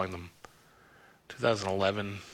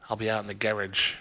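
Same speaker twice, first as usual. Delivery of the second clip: put-on a light English accent, "garage" said as "GARR-idge"; mock English accent. DJ imagining himself moved to England, mild English accent. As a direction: lightly imitate an Englishman with "garage" rhymed with "carriage". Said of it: "supplanted to England".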